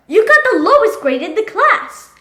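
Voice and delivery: loud, high-pitched telling-off; angry scolding. Acted. Father confronts son over the lowest grade, angry scolding. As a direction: scold him, raising pitch and volume.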